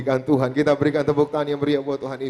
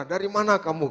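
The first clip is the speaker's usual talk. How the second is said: higher-pitched, mildly cross questioning; retold angry father; 5 semitones higher than usual. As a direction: imitate a father demanding an answer. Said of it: "dia marah". (menirukan ayah bertanya dengan marah)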